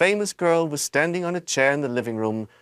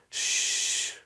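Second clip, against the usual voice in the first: soft unvoiced shush; whispered shush; 5 dB quieter than usual. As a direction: hush them with a whisper. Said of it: "whispered Grandpa Joe".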